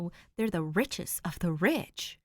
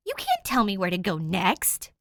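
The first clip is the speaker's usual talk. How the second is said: stubborn; 7 dB louder than usual. Acted. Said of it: "she says stubbornly".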